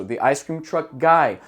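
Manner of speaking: slow the ice cream truck guy, stress on guy; natural English phrase. Shown as a demonstration. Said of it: "a gente combina isso".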